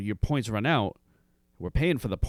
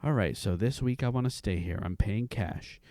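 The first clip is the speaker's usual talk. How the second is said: calm salesman. Retold or imitated. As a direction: lay out the plan gently, in no hurry. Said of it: "he's so calm".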